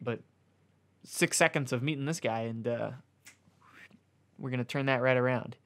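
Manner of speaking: ordinary talk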